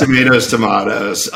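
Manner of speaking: "tomatoes" first tuh-MAY-toes, then tuh-MAH-toes; two variant pronunciations. Shown as a demonstration. Guest agreeing with host, "tomatoes" as MAY-toes then MAH-toes. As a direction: switch "tomatoes" from AY to AH.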